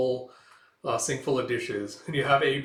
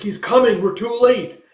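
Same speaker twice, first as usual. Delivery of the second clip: high, loud cry of alarm; panicked shout; 10 semitones higher, 13 dB louder than usual. Acted. Warning the group the enemy is here, panicked high shout. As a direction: yell the warning, much higher and louder.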